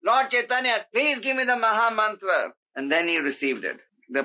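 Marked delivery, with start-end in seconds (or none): 0.0-2.5 higher-pitched, earnest entreaty; praying plea. Retold or imitated. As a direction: implore in a raised voice, as in prayer. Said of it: "Thakur Bhaktivinoda prayed".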